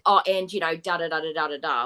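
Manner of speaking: mocking Dee Dee. Commentator mocking Dee Dee's brush-off filler. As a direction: wave it off with a breezy da da da. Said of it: "she brushes it off with".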